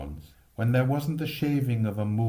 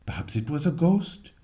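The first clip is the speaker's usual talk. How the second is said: put-on boy wondering; 5 semitones higher than usual. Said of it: "Jim said".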